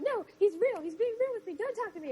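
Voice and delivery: high, girlish mock Caroline. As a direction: pitch it way up as a smitten girl. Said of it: "I liked her voices".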